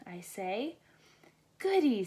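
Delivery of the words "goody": high, loud gleeful goody; delighted. A narrator's reading. Rachel thrilled to share a class with Olivia. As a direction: squeal it with delight. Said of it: "said Rachel".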